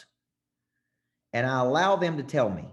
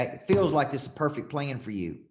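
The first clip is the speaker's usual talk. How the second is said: changing voice tone; 2 semitones higher than usual. Shown as a demonstration. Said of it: "Notice how I'm changing my voice tone".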